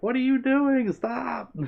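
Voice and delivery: imitating disbelief at a coworker; mock outrage. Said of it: "we were all like".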